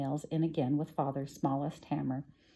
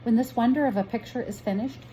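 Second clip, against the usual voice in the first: put-on like a child; 6 semitones higher than usual. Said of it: "like a child herself".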